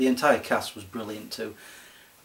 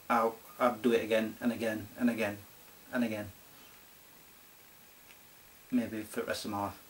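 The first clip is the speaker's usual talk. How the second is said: softer with each repeat, drifting off; fading musing; 2 semitones lower, 7 dB quieter than usual. Real, not acted. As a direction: trail away as if lost in the thought. Musing on endlessly rewatching film.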